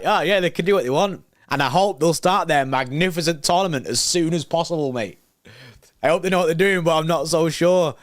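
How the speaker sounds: mock the president's polite words with heavy sarcasm; sarcastic mock quote. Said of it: "he's bare sarcasm there".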